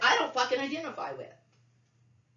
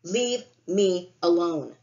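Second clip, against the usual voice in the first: slow, louder, each word spaced out; slow firm demand; 5 dB louder, much slower than usual. Real, not acted. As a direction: lay down the law, word by word. Angry rant at abusers.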